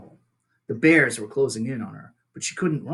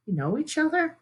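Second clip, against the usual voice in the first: put-on young gosling; 13 semitones higher than usual. Young gosling asks robot.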